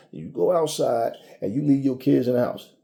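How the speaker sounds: normal talking voice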